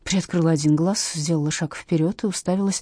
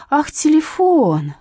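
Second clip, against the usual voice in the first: high, slow delighted exclaim; light up with relief; relieved delight; 10 semitones higher, 6 dB louder, much slower than usual. Acted. Witness relieved, realising what is meant. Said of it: "обрадовалась Катя".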